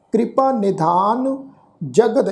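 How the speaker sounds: slow, measured verse reading; scripture recitation. Shown as a demonstration. Teacher resumes the verse after explaining, slow recitation. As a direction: recite the phrase slowly, last syllable held. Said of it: "ਅਸਲ ਪਾਠ ਉਚਾਰਨ ਹੋਏਗਾ".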